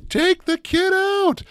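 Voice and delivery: put-on thick New York accent, high and drawn-out yell. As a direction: bark it like an angry New Yorker in the seats. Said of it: "in that thick New York accent".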